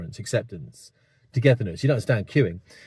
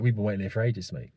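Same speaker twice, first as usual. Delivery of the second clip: mild polite English complaint; 2 semitones lower, 4 dB quieter than usual. Retold or imitated. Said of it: "an English guy saying this".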